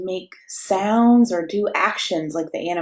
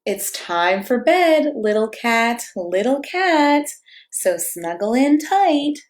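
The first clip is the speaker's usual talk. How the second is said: slow, gentle bedtime read-aloud; cozy storybook reading; reading to children; slower than usual. A narrator's reading. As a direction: lull a toddler toward sleep. Reads picture book to child.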